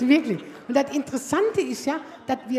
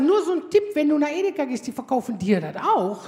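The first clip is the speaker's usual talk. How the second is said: louder and higher, a pointed sarcastic jab; mock sharp tip; 3 semitones higher, 5 dB louder than usual. Mother snaps sarcastically at her son raiding the fridge. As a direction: hit him with it loud and high. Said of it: "Ich sag".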